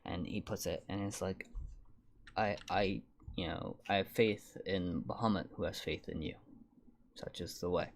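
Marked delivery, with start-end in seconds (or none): 2.4-7.9 put-on old man voice. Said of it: "my old man voice slipped".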